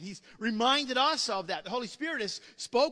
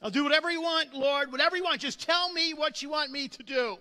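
begging; 6 semitones higher, 6 dB louder, faster than usual. Retold or imitated. Jack begging God.

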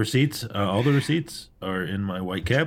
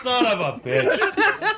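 laughing; 11 semitones higher, much slower than usual. Real, not acted. Slow line through laughter.

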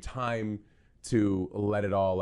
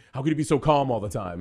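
baffled question; 5 semitones higher, 8 dB louder than usual. Retold or imitated. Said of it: "one person who was like".

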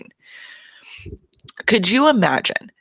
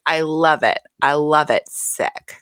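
lightly voiced impression, ending on an airy, voiceless word; a badly done celebrity mom impression; Lisa; 2 semitones lower, slower than usual. Podcaster imitating a reality-show mom seeing her son's suit, terrible impression. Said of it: "I do a terrible Lisa impression".

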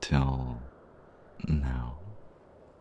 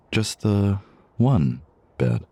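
suggestive slow drawl; 4 semitones higher, 4 dB louder, much slower than usual. Acted. Suggestive question about the bed.

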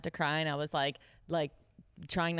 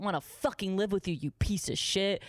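retold angry insult; 3 semitones higher than usual. Retelling parting insult to boss.

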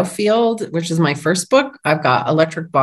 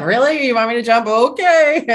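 incredulous mock reply; 5 semitones higher than usual. Retelling her own reluctant reply to God.

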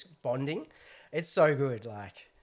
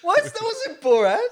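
surprised; 10 dB louder, slower than usual. Real, not acted. Mock-indignant reaction.

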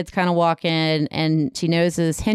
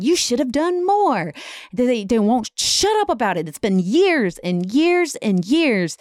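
exasperated outburst, pitched up; retold rising anger; 4 semitones higher than usual. Husband raging at wife about the president's death, acted exasperated anger. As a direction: act out fed-up anger, voice climbing higher without fully shouting. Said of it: "Henry just gets angrier".

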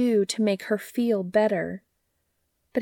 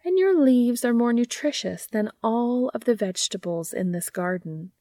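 lullaby-like gardener; 4 semitones higher than usual. Acted. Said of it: "a lullaby under the dark night sky".

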